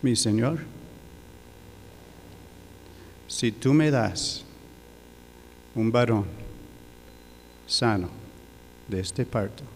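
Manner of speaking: halting, with long emotional pauses; choked with emotion. Real, not acted. Preacher retelling a father's prayer at a difficult birth, choked with emotion. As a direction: hold back emotion between phrases. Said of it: "me emociono".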